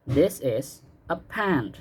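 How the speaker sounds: slow and clear, word by word; slow model sentence. Shown as a demonstration. Teacher modeling a sentence for pupils to repeat, slow and clear. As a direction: spell it out slowly for the class to copy. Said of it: "Repeat after me sekarang ya".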